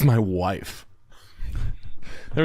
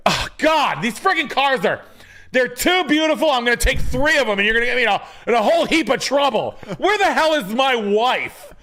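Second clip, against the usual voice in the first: much higher, camp realtor voice; realtor impression; 12 semitones higher than usual. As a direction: squeal it like the fussy realtor. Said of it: "he talks like this".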